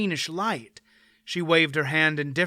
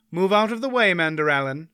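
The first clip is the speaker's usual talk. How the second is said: commanding woman; 3 semitones higher, 3 dB louder than usual. Acted. Aunt Pol commands knight.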